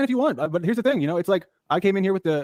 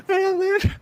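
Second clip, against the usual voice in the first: half-laughing try, pitched up; laughing attempt; slower than usual. Shown as a demonstration. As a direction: lose it mid-line with a laugh. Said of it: "Go just a little deeper".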